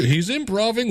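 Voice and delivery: mock alarm, pitch up; imitating panicked host. Host reacting to the guest's improvising, mock alarm. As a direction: sound thrown by the improvising guest. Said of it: "the host guy was kinda like".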